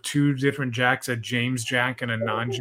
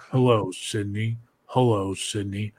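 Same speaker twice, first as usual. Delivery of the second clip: slightly lowered, unconvincing movie villain voice; bad Scream impression; 4 semitones lower than usual. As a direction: repeat a feeble villain impression, barely changing your voice. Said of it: "doing it over and over again".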